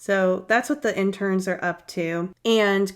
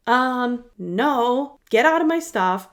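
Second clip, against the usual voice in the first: higher, louder mock outburst; Meredith freaking out; 5 semitones higher, 5 dB louder, slower than usual. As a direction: snap at the roommates, rising. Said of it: "she just freaks out and is like".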